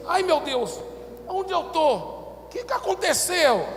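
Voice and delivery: high, dazed woman's voice; woman waking up asking where she is; bewildered. Retold or imitated. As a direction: sound lost and confused.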